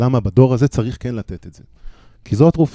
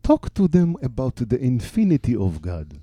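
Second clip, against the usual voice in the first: put-on slow, emphatic English in an Israeli accent; English drawn out, Israeli-accented; 3 semitones higher, much slower than usual. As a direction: quote it slowly with an Israeli accent. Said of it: "ככה, עם מבטא ישראלי".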